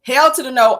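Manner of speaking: a singer's voice. Retold or imitated. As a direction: hit it like a soulful diva. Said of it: "in my singer voice".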